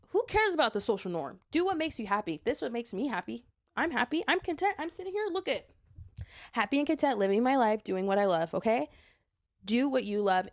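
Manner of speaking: high and loud, happy and defiant; a joyful rallying cry; excited, defiant. Real, not acted. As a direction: cheer them on, proud and content. Defiant pep talk to listeners.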